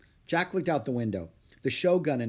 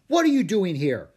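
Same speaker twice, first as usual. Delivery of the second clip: loud, high scolding question; raised-voice reproach; calling out; 7 semitones higher, 8 dB louder than usual. A narrator's reading. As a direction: call across to stray pupils. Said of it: "he called out to Jack and Annie".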